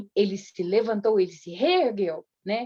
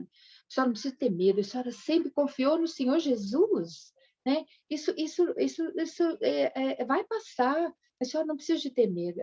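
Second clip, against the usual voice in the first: gentle soothing; 5 semitones higher than usual. Retold or imitated. Aunt soothing frightened grandmother.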